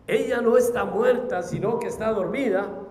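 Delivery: full-voiced quote with strong conviction; forceful declaration. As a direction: proclaim it firmly to the whole crowd. Quotes Jesus' declaration to mourners.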